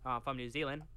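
half-hearted mock New Zealand accent; a jokey stab at a New Zealand accent; bad New Zealand accent. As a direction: badly fake a New Zealander. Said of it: "I won't do a New Zealand accent".

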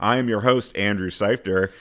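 announcer voice; showy host introduction; game show host. Pretend. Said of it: "I'm talking like a game show host again".

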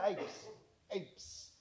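breathy psst fading into a whisper; tempter's whisper. Acted. Satan on your shoulder tempting you, whispered.

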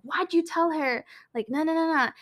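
a hint of an angry boy yelling; mock yell. Boy scolding ex-best friend for telling, mild mock yell. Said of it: "he yells at her and is like".

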